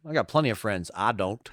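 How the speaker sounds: low, soft mock gunslinger line; Doc Holliday. Friend quoting a movie gunslinger, lightly imitating Doc Holliday. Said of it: "a Doc Holliday".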